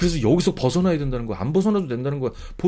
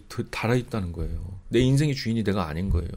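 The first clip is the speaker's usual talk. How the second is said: normal talking voice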